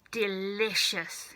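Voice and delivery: slow, savouring; relishing. Acted. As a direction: draw it out with relish. Grandma savours again.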